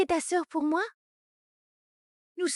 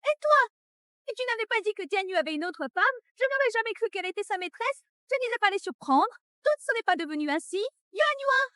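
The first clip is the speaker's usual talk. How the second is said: higher, shrill accusation; angry yell; 5 semitones higher than usual. Acted. Mother shouting at her daughter, furious and high.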